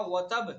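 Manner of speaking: وتب without the doubled t; وتب with echo but no doubling; wrong reading. Shown as a demonstration. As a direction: say وتب missing the shadda. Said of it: "یہ غلط ہو جائے گا".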